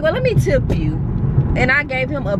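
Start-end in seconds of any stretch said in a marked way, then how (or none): 0.0-1.0 quoting herself. Retold or imitated. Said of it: "I was like".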